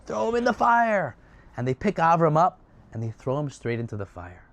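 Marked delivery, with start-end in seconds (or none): 0.1-1.1 screamed order. Acted. Nimrod ordering Avram into the fire, screaming. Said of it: "Nimrod screams".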